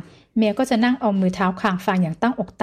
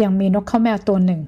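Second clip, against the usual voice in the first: slow, artful storytelling. Acted. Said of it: "เนิบๆ มีสูงมีต่ำ".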